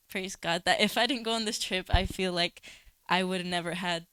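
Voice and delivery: loud, rising testimony of praise; loud, joyful praise from the pulpit; fervent praise. Real, not acted. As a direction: proclaim it to the whole room.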